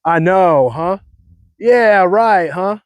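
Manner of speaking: mock Cali tag question; lightly mocking California talk; California "huh". Shown as a demonstration. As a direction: end on a lazy "huh".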